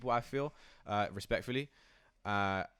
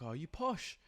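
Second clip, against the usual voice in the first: mock teasing; 9 semitones higher, 4 dB quieter, slower than usual. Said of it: "they're like".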